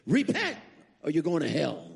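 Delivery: mock preacher shout. Preacher pointing finger, repent.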